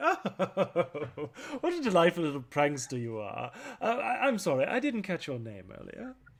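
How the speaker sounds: amused, delighted female laughing speech, high and swooping. Voicing the woman who meets Clank: laughing while speaking as the woman. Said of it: "the woman that you're talking to, laughs and is like".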